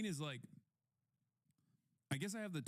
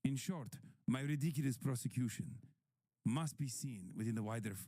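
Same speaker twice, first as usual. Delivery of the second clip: put-on Greek accent. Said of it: "this is what he sounds like".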